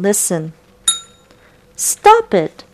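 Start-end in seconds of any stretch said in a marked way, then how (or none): 1.8-2.6 high bubbly fish voice. Acted. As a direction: burble it like a fish underwater. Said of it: "bubbled the fish".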